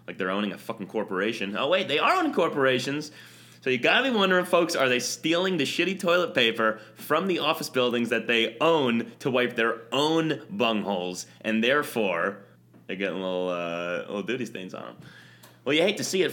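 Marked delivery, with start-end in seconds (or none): 1.6-11.2 mock outrage. Host ranting to listeners about owners with mock outrage. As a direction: whip it up like a rant. Building a comic rant.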